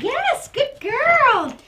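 high, slow, stretched praise; drawn-out praise. Real, not acted. Trainer praising the poodle on the toy, slow and high. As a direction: draw the praise out long and high. Praising dog mid-play.

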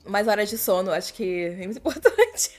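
falando entre bocejos; voz de sono, bocejando. Real, not acted. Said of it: "toda hora eu tô bocejando aqui". (bocejando enquanto fala)

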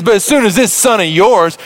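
pointed, resentful "son of yours"; resentful quote. Acted. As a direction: spit out "son of yours" with disdain. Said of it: "He says".

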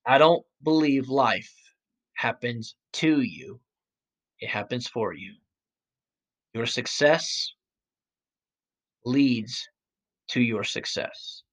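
cinematic. Shown as a demonstration. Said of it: "I was trying to be all, like, cinematic there".

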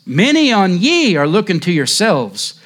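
hint of a broad Essex lay preacher pleading; a mild broad Essex accent in a preacher's fervour. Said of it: "said he in broad Essex".

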